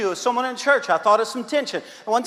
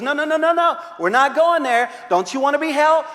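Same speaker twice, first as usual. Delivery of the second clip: comic therapist brushing her off; 5 semitones higher than usual. Retold or imitated. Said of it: "he goes".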